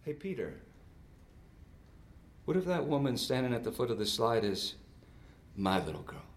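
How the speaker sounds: hushed, voiced murmur with pauses; God's whisper. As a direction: gently put the question, softly. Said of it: "when I sensed God's whisper".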